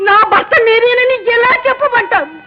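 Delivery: weeping mother pleading; choked, crying through the words; a mother breaking down as she confesses; tearful confession. Acted.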